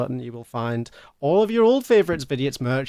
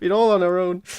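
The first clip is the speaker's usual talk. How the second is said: higher-pitched playful lament; mock distress; 6 semitones higher than usual. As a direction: ham up being left alone. Mock distress at being without mod.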